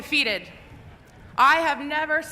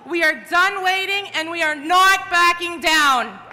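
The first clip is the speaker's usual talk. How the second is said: roaring rallying speech. Real, not acted. Rally chant to the crowd.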